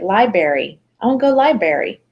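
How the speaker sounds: "library" with the first R dropped, imitating a child; child's mispronunciation. Second kid asking to go, mock childish "lie-berry". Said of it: "second kid was like".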